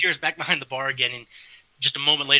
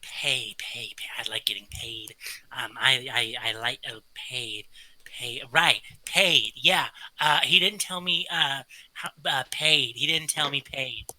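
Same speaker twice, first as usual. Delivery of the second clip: kobold. Acted. GM plays kobold.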